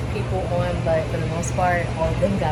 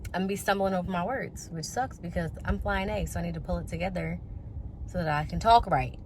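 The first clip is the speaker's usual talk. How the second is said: wearing a retainer. Real, not acted. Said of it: "I have been wearing my retainer".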